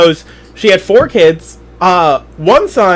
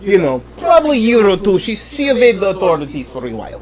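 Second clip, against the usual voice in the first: put-on terrible Russian accent. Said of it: "The terrible Russian".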